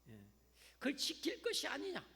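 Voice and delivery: ordinary delivery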